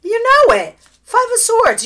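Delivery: loud, high, thrilled; excited exclaim. Real, not acted. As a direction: burst out with excitement. Excited reading reveal.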